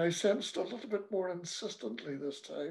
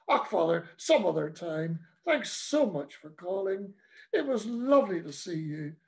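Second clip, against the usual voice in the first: through clenched teeth. Acted. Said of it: "I lied through clenched teeth".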